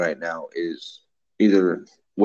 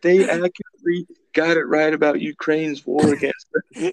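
mock Putin; 7 semitones higher than usual. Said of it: "He's like".

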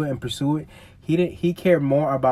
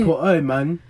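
usual speaking voice

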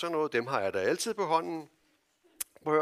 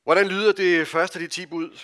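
loud question; 4 semitones higher, 9 dB louder than usual. Shown as a demonstration. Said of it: "Hallo, voksne".

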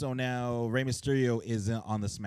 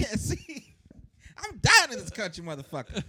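high, frantic character rant; 11 semitones higher, 3 dB louder than usual. Retold or imitated. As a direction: rant like a crazed wrestler. Imitating Nikki Cross.

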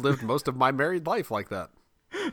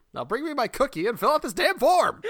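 mock demanding; 13 semitones higher than usual.

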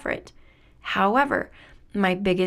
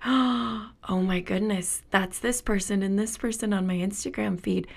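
mock realization; 3 dB quieter than usual. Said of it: "coming up in me where I'm like".

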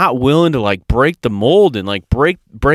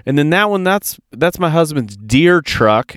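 hammed-up whine defending every vehicle; whiny excuse voice; 2 semitones higher, slower than usual. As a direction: mimic a mom pleading over her cars. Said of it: "And they're like".

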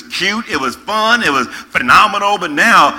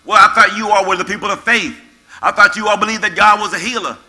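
mock critic; 3 semitones higher, faster than usual. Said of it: "If we don't move soon enough".

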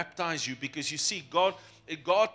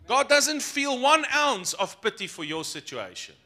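high, loud declaration; raised, emphatic; 6 semitones higher, 5 dB louder than usual. Shown as a demonstration. Preacher telling the congregation God will not pity them, loud and emphatic. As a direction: proclaim it loudly on a raised pitch. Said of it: "let me say it with more anger".

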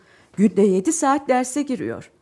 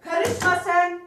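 high, louder, fed up; indignant retort; 9 semitones higher, 5 dB louder than usual. Acted. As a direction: put him in his place. Wife snaps back at husband. (kocasına yüksek sesle öfkeli çıkış)

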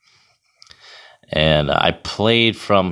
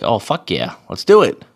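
excited yell; 2 semitones higher, 4 dB louder than usual. Retold or imitated. Goalie hearing about an open net spot, excited shout. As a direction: fire it out like you just got the call.

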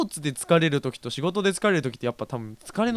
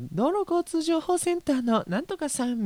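much higher, put-on announcer voice; traffic report announcer. Host imagining a traffic corner, mock announcer voice. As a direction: chirp it like a highway traffic radio host. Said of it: "ちょっと声変えてね".

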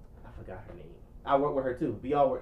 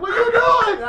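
high, loud outraged question; hammed-up shocked protest; alarmed shout; 11 dB louder, slower than usual. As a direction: yell it in comic panic. Retold alarmed protest to girlfriend.

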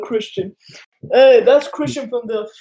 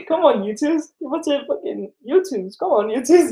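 excited begging; 4 semitones higher than usual. Real, not acted. Begging for YouTubes merch.

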